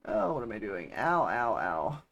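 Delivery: pained ows from a cramp; getting a leg cramp. Real, not acted. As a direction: groan through a sudden cramp. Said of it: "I kinda get all hunched down".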